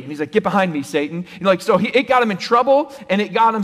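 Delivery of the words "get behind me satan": loud, sharp mock rebuke; stern rebuke. Jesus to Peter, a loud stern rebuke. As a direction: push him away with the words.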